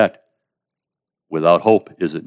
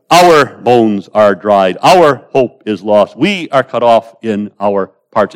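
slow, louder mournful lament; lamenting complaint; 2 semitones higher, 6 dB louder, slower than usual. Acted. The despairing faithful complain to the prophet, mournful and slow. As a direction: drag the words out like a people in despair. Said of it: "make this complaint".

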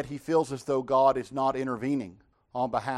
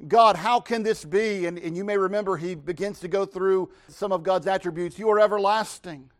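shocked Habakkuk; 6 semitones higher, 4 dB louder than usual. Acted. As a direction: plead in disbelief. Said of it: "this utterly shocks Habakkuk".

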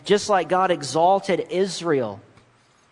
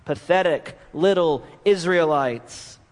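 mocking; slower than usual. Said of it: "mocked it, ridiculed it".

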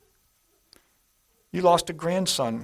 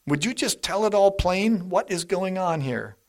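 Job's desperate plea; 6 semitones higher than usual. Retold or imitated. Preacher voicing Job demanding answers from God, high exasperated plea. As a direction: throw the question up at God, exasperated. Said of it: "Job said this".

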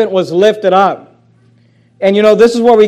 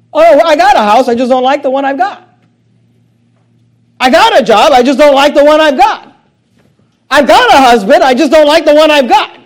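whiny complaint; 6 semitones higher, 5 dB louder than usual. Retold or imitated. Voicing a discontented churchgoer.

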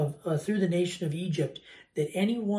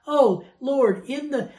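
high, loud mock-reverent delight; mock rapture; 7 semitones higher, 6 dB louder, slower than usual. Worshipper delights in a joyful verse, mock rapture. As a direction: swell up as if awestruck.

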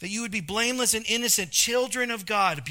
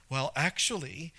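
know-it-all; 5 semitones lower, 4 dB quieter than usual. Retold or imitated.

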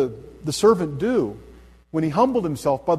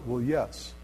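sheepish admission; 3 semitones lower, 7 dB quieter than usual. Retold or imitated. Man confessing sheepishly.

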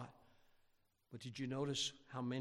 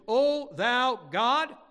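loud, drawn-out cry on "O thou God", lifting at the end; "God" raised like a question; 10 semitones higher, 12 dB louder, much slower than usual. Acted. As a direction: call "O thou God" slowly as a challenge. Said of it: "who do they cry out to?".

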